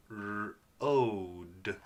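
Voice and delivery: "R-, ode" with held R, then long O; sounded out. Shown as a demonstration. Teacher sounding out magic E word, segmented. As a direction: split off the R, stretch "ode". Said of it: "O magic E says O".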